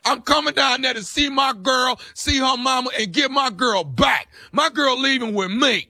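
hammed-up prison shout. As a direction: shout it like a tough jailbird. Prank inmate insists on getting her.

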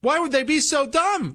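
very high, whiny parody; mocking whiny voice. Host mimicking fired posters, shrill high mock whine. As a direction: play the baffled, indignant poster. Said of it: "and people said".

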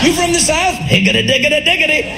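badly faked Southern accent with nonsense syllables; mock Southern accent. Outsiders doing a Southerner's accent back at them, mock Southern accent. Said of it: "they want to do your accent".

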